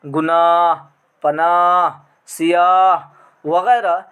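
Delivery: गुनाह पनाह सियाह with the final ह clearly sounded, slow. Shown as a demonstration. Teacher slowly sounding out final h. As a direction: lean on the final h. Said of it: "जिसका तलफ़ुज़ किया जाता है".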